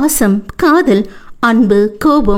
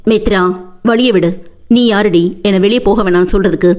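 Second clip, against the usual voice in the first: suppressed anger. Acted. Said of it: "அடக்கப்பட்ட கோபத்துடன்".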